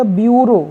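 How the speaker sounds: ब्यूरो said byoo-ro; ब्यूरो with yu sound. Shown as a demonstration. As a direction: glide b into yoo, then ro, in ब्यूरो. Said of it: "इसका pronunciation या उच्चारण हो जाएगा".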